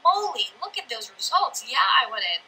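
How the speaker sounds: imitating an excited newcomer; mildly hammed-up amazement, drawn into eager interest; excited onlooker. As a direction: play an impressed follower jumping in. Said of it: "they get excited".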